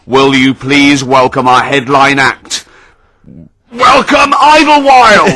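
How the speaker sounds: booming, slow arena announcer; stadium announcer. Retold or imitated. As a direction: drag out the band name for a huge crowd. Mock announcer introducing a band.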